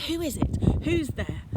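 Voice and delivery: high, loud scared call; frightened call. Acted. Girl hidden in a bush calling to Fred, scared loud call. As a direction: call out into the dark, afraid.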